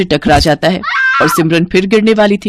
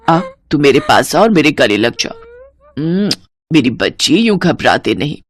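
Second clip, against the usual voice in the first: comforting mother-in-law; 2 semitones higher than usual. Acted. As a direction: hush a frightened child.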